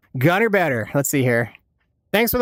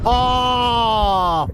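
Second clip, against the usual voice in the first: startled shout; 6 semitones higher than usual. Real, not acted. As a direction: caught off guard by a kill. Suddenly killed in game.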